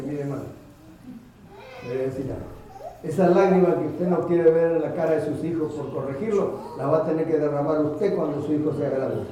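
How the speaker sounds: firm, rising to loud at the end; stern warning. Retold or imitated. Preacher warns the father, building to a loud stern warning. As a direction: lay down a warning, building in force.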